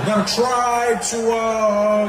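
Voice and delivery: halting, as if buffering; stop-start presidential caricature with long hesitations; Barack Obama. Acted. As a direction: stall on drawn-out uhs, then resume. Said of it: "sounded like it was buffering".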